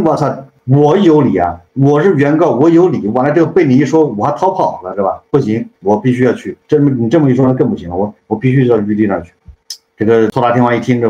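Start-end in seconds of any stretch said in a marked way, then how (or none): 0.0-5.2 indignant outburst. Retold or imitated. Wukong indignant, insisting he's right.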